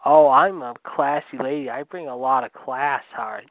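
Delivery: slow, mocking imitation of a self-styled classy lady. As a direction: drag it out as a snooty mimic. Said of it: "and you think".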